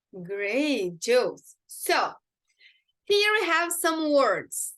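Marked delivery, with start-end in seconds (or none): none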